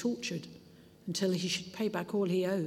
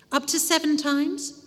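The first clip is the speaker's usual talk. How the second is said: questioning; 8 semitones higher, 6 dB louder than usual. A narrator's reading. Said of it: "and asked".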